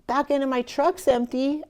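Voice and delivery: high, loud rustic voice; a hint of a toothless hillbilly offering help; hillbilly helper.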